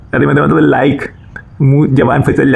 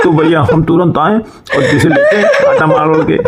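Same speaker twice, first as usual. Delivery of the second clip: laughing through words. Real, not acted. Still laughing at the joke.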